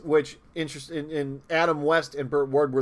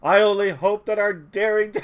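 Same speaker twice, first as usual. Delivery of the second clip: mock Commissioner Gordon; 5 semitones higher, 4 dB louder than usual. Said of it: "Commissioner Gordon opines into nowhere".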